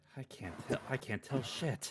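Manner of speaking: whispered, muttered under the breath. Voicing Viliata checking on an unconscious man: under her breath. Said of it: "says under her breath".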